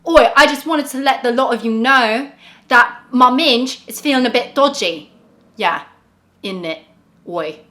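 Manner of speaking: loud cockney Oi, British accent put on; bad British accent. American vlogger attempting a British sentence, bad British accent. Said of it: "my accent is so bad".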